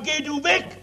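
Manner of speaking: half-voiced shout of disgust; imitating people shouting go away; mock crowd yell. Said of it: "wie die Leute geschrien haben".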